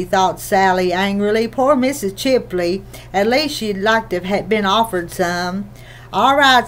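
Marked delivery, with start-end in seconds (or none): 6.1-6.7 mildly sharp, a little raised; a touch of curt impatience at the door. Acted. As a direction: cut the word off short and curt. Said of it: "said Aunt Sarah sharply".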